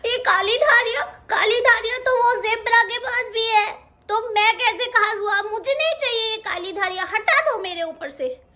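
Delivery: high, mildly tearful whine; a mild mock sob through the words; lightly tearful little lion cub; crying cub. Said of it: "रोते रोते बोला".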